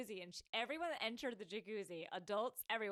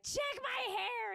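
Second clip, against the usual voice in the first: higher and slow, pleading; insistent demand; 4 dB louder, much slower than usual. Retold or imitated. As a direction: drag out each word, insisting. Anxious demand to husband.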